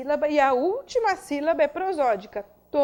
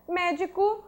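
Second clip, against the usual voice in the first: médico with a higher-pitched MÉ; stress on MÉ; 4 semitones higher, slower than usual. Shown as a demonstration. Teacher giving a proparoxytone example, médico stressed on MÉ. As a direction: lean on the first syllable of médico. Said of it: "antepenúltima tônica".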